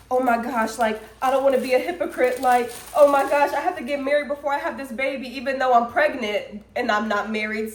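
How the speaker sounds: quick, mildly panicked rush; panicking. Retold or imitated. Dreamer retelling her panic to viewers, quick and mildly anxious. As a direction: retell your dream panic, hurrying the words. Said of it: "So I'm over here panicking".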